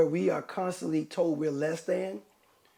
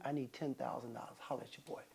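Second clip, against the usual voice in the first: smooth hustler pitch; 5 semitones lower, 13 dB quieter, faster than usual. Pretend. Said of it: "If I say".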